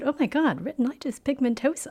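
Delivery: imitating a charming English accent; mock English accent, lightly done. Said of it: "The power of the English accent".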